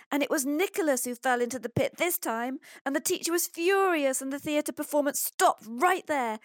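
put-on high, agitated boy's rush of woe; breathless, dramatic nightmare retelling; out of breath. A narrator's reading. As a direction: pour out the disaster in a high, worked-up child voice. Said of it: "continues Pablo out of breath".

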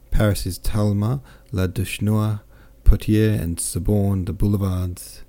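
lightly voiced, lively boastful officer; a hint of a jovial soldier bragging; cheerful French captain. Captain boasts of his wounds to Pierre, lightly voiced jovial.

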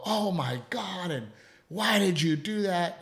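high, drawn-out exasperation without volume; mock parental scolding. Dad showing how he doesn't react to his son, mock scolding. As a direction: imitate an overreacting parent, stretching the words. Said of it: "We don't yell at him".

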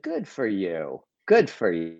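low, soft, understated approval; imagined Bernie Sanders. Retold or imitated. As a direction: say it low and quiet, as an imagined reply. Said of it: "he would also have said".

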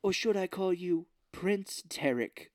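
lightly put-on villain relish; mock taunting villain. Villain taunting the blacksmith, mock theatrical.

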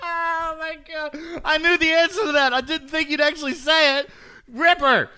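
high-pitched, breaking up with laughter; laughing hard. Real, not acted. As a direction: squeal it through real laughter. Cracking up at guest's admission.

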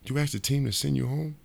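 can't believe what he heard; disbelief. Retold or imitated. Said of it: "He's like".

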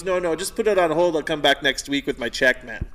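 lightly imitated Jamaican accent; a hint of an old Jamaican customer; old Jamaican man. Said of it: "he's, uh, old Jamaican guy".

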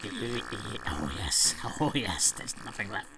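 very soft, faint last words; weak dying voice. Acted. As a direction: fade out like a dying king.

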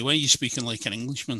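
quick question, imitating a cousin; lightly voiced accusing question, said fast; retold challenge. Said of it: "he'd say to me".

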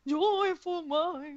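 impression of a singer. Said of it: "We could do Cher".

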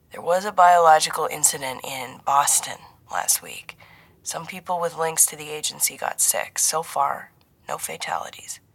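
lightly voiced handler, trailing into near-whisper; grave handler. Handler reporting Boston incident to agent, grave and hushed. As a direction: break the bad news softly and carefully.

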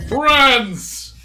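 loud, high booming gargoyle greeting. Acted. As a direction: boom out a big welcome. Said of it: "a booming voice".

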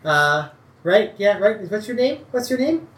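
Tabi's voice. Acted. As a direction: stammer it out, nervous and eager. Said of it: "He's like".

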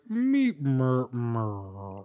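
robot winding down, pitch sagging on the last sound; powering-down robot noise. Retold or imitated. Man recalling his shutdown at the bar, robot powering down. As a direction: imitate a robot shutting down. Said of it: "shutting down like a robot".

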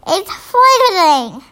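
slow spluttered with full mouth; spluttering. Acted. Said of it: "he spluttered".

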